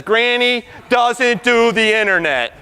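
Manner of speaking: slow, drawn-out mock objection; stubborn refusal. Doubter refusing the lecturer's algorithms, stubborn refusal. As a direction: dig in slowly, word by word.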